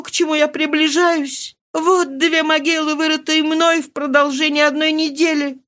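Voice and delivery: put-on high, grief-stricken young widow; despairing young woman. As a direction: pour out her despair to the old nurse. Mari's despairing voice, held high.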